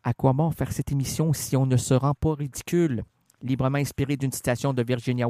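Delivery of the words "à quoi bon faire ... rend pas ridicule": lower, settled and unhurried; calmly. Shown as a demonstration. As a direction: say it calmly this time.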